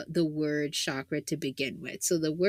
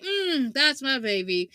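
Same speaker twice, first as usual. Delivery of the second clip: doting mother; 5 semitones higher than usual. Pretend. Mother doting on her son.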